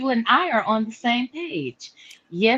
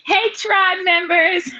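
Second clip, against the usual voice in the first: grand entrance greeting. Real, not acted.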